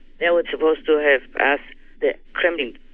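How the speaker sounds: plain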